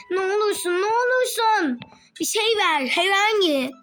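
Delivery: whining at other players for anything at all; desperate begging. Real, not acted.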